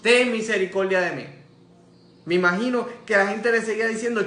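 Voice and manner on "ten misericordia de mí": raised, louder appeal; shouted plea. Retold or imitated. Blind man keeps calling to Jesus, shouted plea. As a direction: call out for mercy over objectors. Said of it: "él le gritaba a Jesús".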